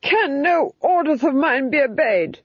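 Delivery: high-pitched screaming Duke; screamed outrage. A narrator's reading. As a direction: scream it as an enraged, thwarted ruler. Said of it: "he screamed".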